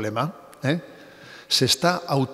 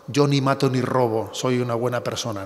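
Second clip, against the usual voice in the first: smug frivolous boast. Retold or imitated. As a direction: toss it off like a smug excuse. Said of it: "Con esa frase frívola".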